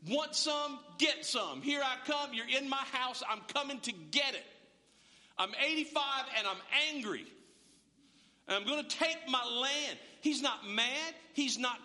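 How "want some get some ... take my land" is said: fired-up taunt. Retold or imitated. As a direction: taunt the giants like a brawler. Caleb taunting giants, fired up.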